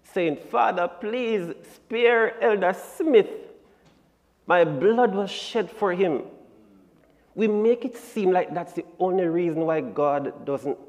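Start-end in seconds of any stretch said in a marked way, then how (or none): 0.5-6.2 pleading Son. Retold or imitated. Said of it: "Son Jesus begging and pleading".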